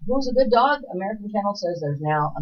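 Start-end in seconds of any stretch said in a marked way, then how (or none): 0.1-0.8 high cooing pet voice. Real, not acted. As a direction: coo it like to a puppy. Cooing at dog photo.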